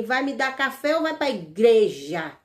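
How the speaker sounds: each word drawn out slowly like her challenge; repeating the possessed woman's dare slowly; slow mocking taunt. To the congregation, quoting the sister-in-law's dare, slow and taunting. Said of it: "Assim mesmo".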